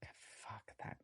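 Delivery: unvoiced, hushed curse; whispered dismay at the gun. Real, not acted. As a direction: breathe the curse under your breath.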